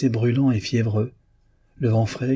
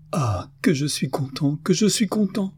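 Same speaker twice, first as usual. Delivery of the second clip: high, elated outburst without shouting; overjoyed cry; 7 semitones higher than usual. A narrator's reading. Hunchbacked brother hearing his brother will marry, overjoyed cry. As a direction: let the joy burst out, pitch climbing on the repeat. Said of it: "un cri jaillit de son cœur oppressé".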